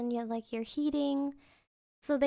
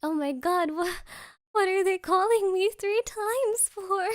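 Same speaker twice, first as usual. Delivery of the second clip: panicked; 3 semitones higher than usual. Retold or imitated. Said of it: "I was, like, shaking".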